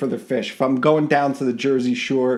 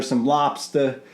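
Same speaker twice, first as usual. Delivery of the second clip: put-on a light Boston accent on chowder and lobster; a touch of Boston accent, half joking; Boston accent attempt. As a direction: lean into a mild Boston accent. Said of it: "my attempt at Boston accent".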